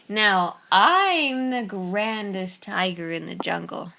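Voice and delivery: slow, proud tiger voice; boastful tiger. Acted. Tiger bragging as he walks off, slow proud voice. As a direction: strut off bragging slowly.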